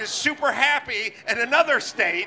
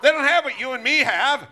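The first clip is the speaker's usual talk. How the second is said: put-on slightly higher, louder, talking down as if to a child; mock a patronizing politician; condescending; 3 semitones higher, 4 dB louder than usual. Mocking how politicians talk down about black and Hispanic people, higher and condescending. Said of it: "sounds like you're talking about a retarded child".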